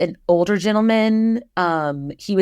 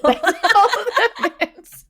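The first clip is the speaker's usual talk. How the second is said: laughing; 13 semitones higher, much slower than usual. Real, not acted. Laughing at her own anticlimax.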